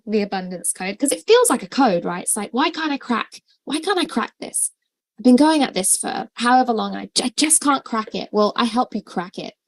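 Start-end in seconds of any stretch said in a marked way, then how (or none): 2.5-8.3 frustrated. Retold or imitated. Voicing a frustrated client's thoughts.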